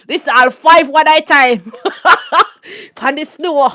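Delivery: words breaking into real laughter; laughing hard. Real, not acted. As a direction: crack up as you say it. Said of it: "I was laughing so hard".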